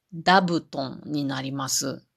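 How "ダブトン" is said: ダブトン said with a d sound, da-bu-ton, not za; Wakayama pronunciation. Shown as a demonstration. Speaker showing the audience how Wakayama folk say it, ダブトン with d. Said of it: "座布団っていう言葉は".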